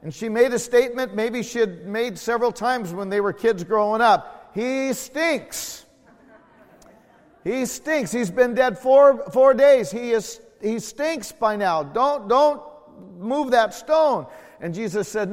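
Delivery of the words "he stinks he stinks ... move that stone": high, loud protest as the sister; the sister begging them to leave the stone. Acted. Sister protesting at the tomb, high and loud.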